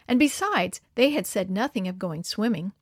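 usual speaking voice

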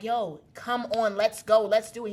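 insistent retold demand, punched at the end; a touch of mock aggression; mad, impatient urging. Pressing her ex for round two, impatiently. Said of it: "I'm getting mad".

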